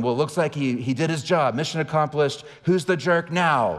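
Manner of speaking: mild mock dad yell; half-hearted retold angry taunt. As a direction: imitate losing your temper, slowing on the last jab. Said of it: "I start yelling".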